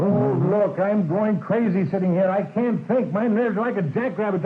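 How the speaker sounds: jittery, edgy outburst; frayed nerves. Acted. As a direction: complain as if about to crack from waiting. Nervous man cracking during long wait.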